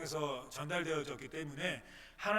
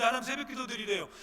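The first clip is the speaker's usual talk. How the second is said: ordinary talk, nothing marked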